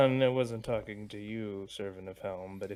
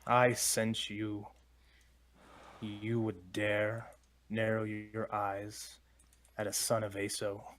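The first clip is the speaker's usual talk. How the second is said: slow dragon voice; slower than usual. Acted. Dragon voice through door.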